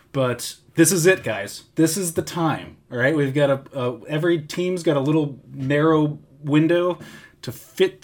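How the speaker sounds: mock pep talk to the fans; rallying speech. Host giving listeners a hammed-up rallying speech, excited. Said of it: "this is my moment here where I say to all of".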